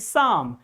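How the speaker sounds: Psalm said as "sahm"; silent letters. Shown as a demonstration. Teacher repeats the word after explaining, Psalm without P or L. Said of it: "L, both are silent".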